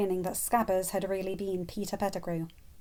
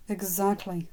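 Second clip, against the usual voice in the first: sad smile; slower than usual. Acted. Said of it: "with a sad smile".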